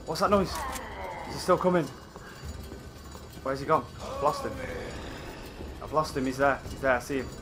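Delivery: low and soft, tense; hushed. Real, not acted. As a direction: keep your voice down while hiding. Hiding from a monster.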